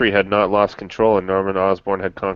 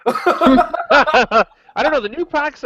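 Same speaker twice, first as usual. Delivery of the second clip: high squeaky laugh through words; 3 dB louder, much slower than usual. Real, not acted. Laughing at joke about broken card.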